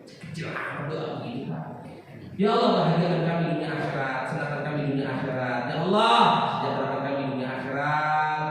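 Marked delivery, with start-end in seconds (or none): 2.4-8.4 model prayer. Shown as a demonstration.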